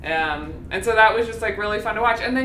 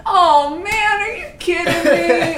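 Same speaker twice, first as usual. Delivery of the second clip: laughing and high, louder, mock outrage; laughing exasperation; 7 semitones higher, 6 dB louder than usual. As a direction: laugh through it, fed up but amused. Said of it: "she'd be like".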